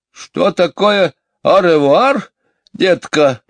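high, slow singsong echo; calling back. Acted. Housekeeper answers from another room, high singsong call. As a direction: repeat the question sweetly, drawn out. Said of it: "откликнулась миссис Брил из другой комнаты".

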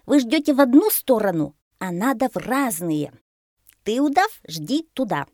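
loud parrot, jumping high on each instruction; commanding parrot. A narrator's reading. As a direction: boss them into position. Попугай командует друзьями. (командующий попугай, громко и высоко)

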